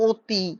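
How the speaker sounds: অতি opening on a closed "o", as "oti". Shown as a demonstration. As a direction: round the first vowel of অতি into ও. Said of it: "মানে ও এর মতো উচ্চারণ হয়".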